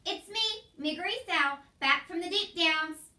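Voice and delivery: loud, high call across the kitchen; shouting. A narrator's reading. Mig shouts her return to Cook. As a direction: Mig announces herself with a shout. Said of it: "she shouted".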